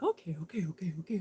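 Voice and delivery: meek whispered okays; whispered dog reply. Pretend. The dog answering her meekly, whispered. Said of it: "And he's like".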